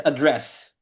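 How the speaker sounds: "address" repeated carefully for copying; model pronunciation. Shown as a demonstration. Teacher repeating the word for a student, carefully pronounced "address". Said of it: "this is read as".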